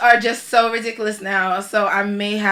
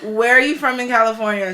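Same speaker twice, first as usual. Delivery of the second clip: a hint of Valley girl; lightly voiced Valley girl question; 3 semitones higher, 4 dB louder than usual. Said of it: "Valley girl".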